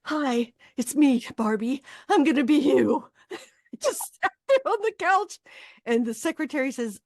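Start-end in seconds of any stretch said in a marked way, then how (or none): 0.0-3.1 sweet doll greeting, getting louder at the end; Barbie. Acted. Actress greets the lobby statue, high sweet doll voice. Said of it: "that's her".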